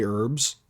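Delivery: "herbs" with a silent H; H dropped. Shown as a demonstration. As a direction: say "herbs" as "erbs". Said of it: "only Americans that say herbs".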